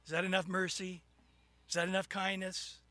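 low, quiet, lightly voiced God; amused Lord. God asks the flooded sinner, low and quietly amused. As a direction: ask gently and low, with unhurried pauses. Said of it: "the Lord's just laughing and laughing".

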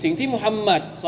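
declaimed, provocative address; challenge. Acted. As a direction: call them out, daring them to prove it. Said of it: "เป็นการท้าทายว่า".

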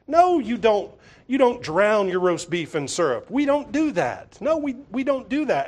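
prissy scolding. Retold or imitated. Imitating Scout's petty rules.

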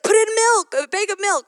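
imitating husband. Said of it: "He's like".

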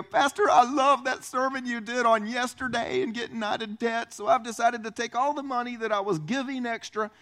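bright gushing church member, building excitement; eager congregant. Retold or imitated. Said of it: "somebody come to me and go".

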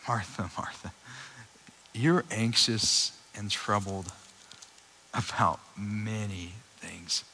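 Jesus gently telling Martha she is anxious; gentle rebuke. Retold or imitated. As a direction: tenderly chide a busy friend. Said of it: "I think".

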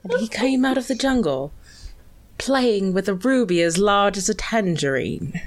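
lightly put-on actor's monologue voice; Michael Caine. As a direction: recite the film speech in a light impression. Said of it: "the weird-ass tangerine speech".

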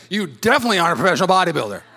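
quick, emphatic verdict; playful put-down; mock doubter. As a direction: lean on DEFINITELY, imitating a blunt onlooker. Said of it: "you say".

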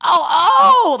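high, drawn-out mock "oh"; imitated group reaction. Friends noticing Lala after her, imitated exclamation. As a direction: act out a room catching on. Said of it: "everyone's like".

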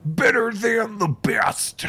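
breathy whispered aside. Retold or imitated. Host whispering an extra line for Barry. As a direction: whisper it slowly.

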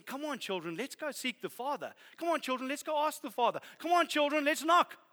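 put-on rally the children, rising each time; building call to children. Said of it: "He's saying".

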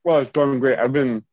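talking through a mouthful of peach; mouth full. Real, not acted. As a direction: speak around the bite you are chewing. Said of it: "sorry, I'm just eating a peach right now".

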